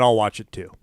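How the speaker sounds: whispered grudging aside. Real, not acted. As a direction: breathe it out under your breath.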